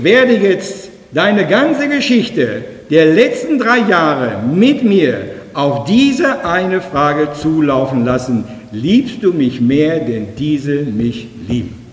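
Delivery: very slow, weighty words; slow solemn question. Acted. Jesus asking Petrus, slow and solemn. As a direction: drag each word out with gravity.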